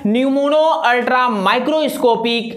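slow, careful pronunciation; teacher spelling out the word slowly for the class; slow word demo. Shown as a demonstration. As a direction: say the long word slowly, part by part. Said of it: "word क्या है?".

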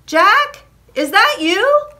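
high, questioning shout from afar; loud cry. A narrator's reading. Casper calls out to Jack, loud high cry. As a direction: call out for a friend. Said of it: "a loud voice cried out".

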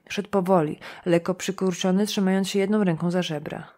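ordinary delivery

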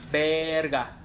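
sudden loud curse of fright; startled curse. Real, not acted. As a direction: blurt it out in shock. Startled by game noise. (maldición de susto)

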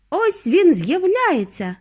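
high, drawn-out excited call; excited cry. A narrator's reading. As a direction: cry it out, stretching the words. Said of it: "заволав містер Вонка".

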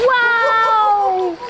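loud delighted cheer; excited. Real, not acted. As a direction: cheer it out proudly. Cheering child's long swim.

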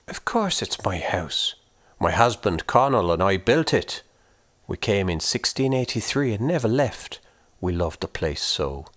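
curious and kindly; Una's voice. Acted. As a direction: ghost woman asking the boy about his corpse. Una voiced.

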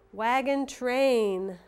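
"Wagon train" slow and stretched; slow model word. Shown as a demonstration. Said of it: "Did you point to the A I?".

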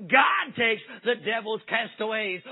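slow, drawn-out shouted refrain; preacher's echoing cry. Retold or imitated. Preacher's cry echoing out to the ladies outside, slow shout. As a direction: ring it out so it carries through the door. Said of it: "They heard the preacher's echo come through".

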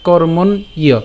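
"কর্মণ ইয়" with a separate i-yo ending; broken-down pronunciation. Shown as a demonstration. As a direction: say kormon, then i-yo, in "কর্মণ ইয়". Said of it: "তাহলে উচ্চারণটা কেমন হচ্ছে?". ("কর্মণ ইয়" ভেঙে স্পষ্ট উচ্চারণ)

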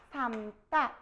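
삶다 said as "sam-tta"; pronunciation demo. Shown as a demonstration. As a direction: drop the ㄹ in 삶다, keep ㅁ. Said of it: "이렇게 하는 거예요".

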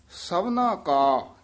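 slow ਸਭਨਾ ਕਾ with a short catch after ਕਾ; slight stop after ਕਾ. Shown as a demonstration. Teacher marking a short stop in the recitation, slow. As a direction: halt briefly on ਸਭਨਾ ਕਾ. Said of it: "ਇੱਥੇ ਠਮਕ ਲਾ ਦੇਣੀ ਹੈ".

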